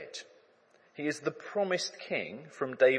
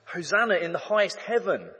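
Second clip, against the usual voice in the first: raised, higher crowd cry of praise; crowd shout; 6 semitones higher, 7 dB louder than usual. Retold or imitated. The crowd hails the king, louder and higher. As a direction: call it out louder like a cheering crowd. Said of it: "they shout".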